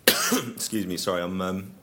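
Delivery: apologising mid-cough, throat still rough; after a cough. Real, not acted. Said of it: "I'm sipping a medicinal lemon drink".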